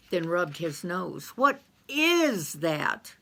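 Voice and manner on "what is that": sniffing high voice. Acted. Carl catches a foul smell.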